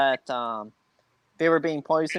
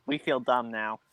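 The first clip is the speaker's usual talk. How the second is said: retold sheepishness; 4 semitones lower than usual. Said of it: "they were like".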